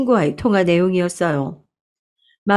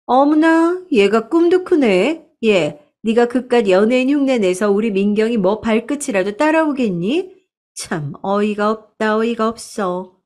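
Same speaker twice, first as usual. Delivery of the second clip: lightly voiced snob looking down on her niece; sneering aunt; 3 semitones higher than usual. Aunt scoffing at her niece's dreams, hammed-up haughty sneer.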